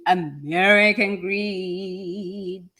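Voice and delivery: ominous show-title flourish; drawn-out dramatic. Real, not acted. Speaker warning listeners about other people's drama, drawn-out and dramatic.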